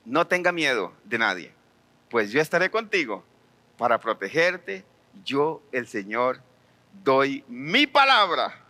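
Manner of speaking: low, slow, gentle promise; reassuring Lord. Retold or imitated. The Lord comforting the fearful prophet, low slow reassurance. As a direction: soothe him as the Lord would. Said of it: "Lord reassures prophet".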